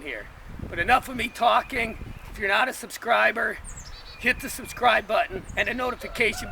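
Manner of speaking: talking with a sore jaw. Real, not acted. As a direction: speak carefully, jaw hurts when talking. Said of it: "it actually hurts to talk right now".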